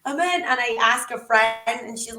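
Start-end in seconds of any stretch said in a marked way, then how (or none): 0.1-0.4 high, loud reenacted protest; retold frantic insistence. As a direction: insist urgently that a mistake was made. Pleading her case on the call.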